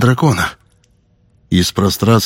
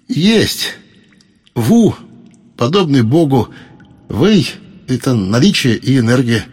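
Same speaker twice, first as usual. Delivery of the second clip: proud explanation; 3 semitones higher than usual. Acted. Hero explains his name.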